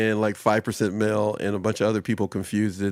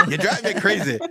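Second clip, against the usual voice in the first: candy bag voice; 9 semitones higher than usual. Acted. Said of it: "the bag goes like".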